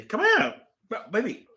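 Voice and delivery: high cooing call to the dog. Real, not acted. Calling dog in baby voice.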